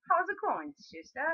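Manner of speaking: friendly greeting. Acted. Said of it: "And he'd be like".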